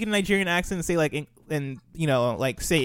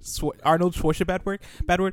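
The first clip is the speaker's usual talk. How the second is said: halting try at a Nigerian accent; attempted Nigerian accent; 2 semitones higher than usual. Shown as a demonstration. Friend giving a best shot on request, attempted Nigerian accent. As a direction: test out a Nigerian accent on the words. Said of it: "give us your best shot right now".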